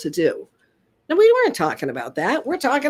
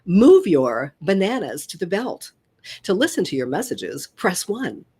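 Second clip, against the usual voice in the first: announcement voice of a self-checkout machine; crisp recorded prompt voice; automated voice. Shown as a demonstration. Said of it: "I was the very first automated voice".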